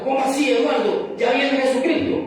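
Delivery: preacher imitating a coworker's startled alarm. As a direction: play the coworker suddenly worried the end is near. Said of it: "él viene y se asusta".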